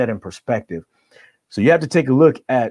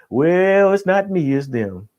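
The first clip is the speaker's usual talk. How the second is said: whiny excuse; 6 semitones higher, slower than usual. Retold or imitated. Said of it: "telling people".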